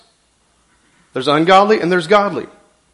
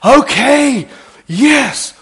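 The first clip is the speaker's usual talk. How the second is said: giving in; 6 semitones higher, 6 dB louder, much slower than usual. Retold or imitated. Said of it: "you finally say".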